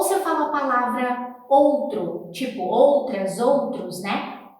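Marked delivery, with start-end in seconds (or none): none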